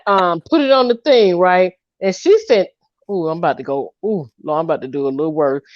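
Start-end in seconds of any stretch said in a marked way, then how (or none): 3.1-5.6 imitating the girl. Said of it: "She talked like this right here".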